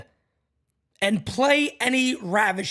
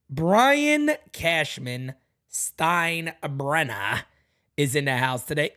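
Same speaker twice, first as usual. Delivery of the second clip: big arena announcer, very slow; slow ring announcer call; slow drawn-out announcer; slower than usual. Acted. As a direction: stretch the name out very slowly.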